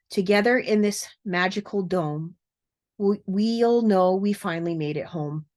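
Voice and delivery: measured verse reading with pauses; poem recital. Acted. Closing a video on verse about crossing over, poem recital. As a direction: recite it line by line, lightly lifted.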